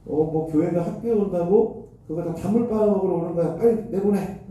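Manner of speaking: mock-yell it like an official throwing you out; retold angry shout. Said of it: "막 이러시는 거예요". (쫓아내는 직원을 흉내 낸, 높고 빠른 가벼운 호통)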